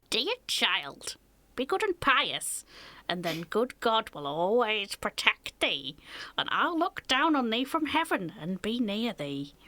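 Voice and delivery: slow storybook dying mother, not really ill; good wife on her deathbed. Acted. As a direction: read it slowly as a pious parting blessing. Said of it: "She doesn't sound even remotely ill".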